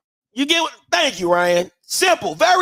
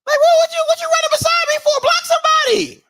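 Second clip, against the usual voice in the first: angry teammate. Retold or imitated. Star player yelling at teammate who didn't block, angry high shout. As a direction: chew out the blocker. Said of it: "I'm talking to that number one like".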